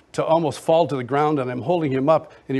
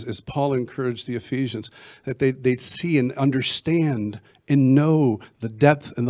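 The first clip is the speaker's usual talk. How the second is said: measured public prayer, settling at the end; earnest prayer; 2 semitones lower than usual. Real, not acted. Guest prays for impartation over listeners, earnest prayer. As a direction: pray sincerely on behalf of listeners.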